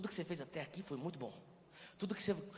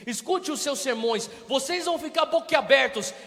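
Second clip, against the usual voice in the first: booming mock God voice; 7 semitones higher, 12 dB louder than usual. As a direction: announce it like a showy herald. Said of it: "o pai não fala isso".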